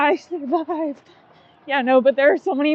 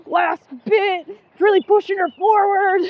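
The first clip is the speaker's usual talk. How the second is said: imitating commentators; 4 semitones higher than usual. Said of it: "They're like".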